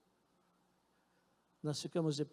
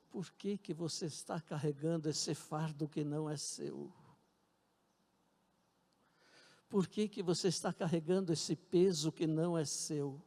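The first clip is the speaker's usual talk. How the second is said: gentle voice. Retold or imitated. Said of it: "uma voz suave".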